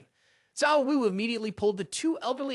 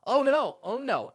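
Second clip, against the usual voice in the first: terrified whimper; 4 semitones higher, 3 dB louder than usual. Acted. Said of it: "terrified, whimpered".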